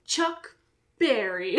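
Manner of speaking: playful mock announcer naming the host; fifties radio voice. Host inventing weird announcer names, fifties radio voice. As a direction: sign on like an old radio host. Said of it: "They always had weird names".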